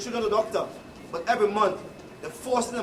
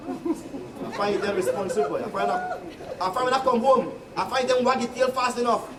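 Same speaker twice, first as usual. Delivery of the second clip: laughing; 5 semitones higher than usual. Real, not acted. Telling it as the dog, laughing.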